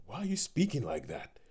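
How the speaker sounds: high, whispered mock disbelief; baffled whisper. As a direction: whisper it as if caught totally off guard. Acting out a baffled listener's reaction.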